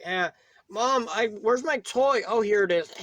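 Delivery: lightly voiced little kid calling for mom; young kid. Kid calling to mom about a lost toy, lightly acted child voice. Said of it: "a five-year-old or six-year-old kid".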